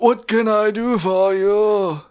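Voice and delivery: deep, slow whispery queen voice; a hint of an old giant queen; deep voiced queen. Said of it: "really low voice for a queen".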